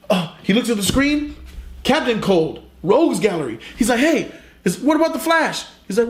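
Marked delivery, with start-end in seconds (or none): 4.0-5.7 mock squeaky question. Barry quizzing coworker.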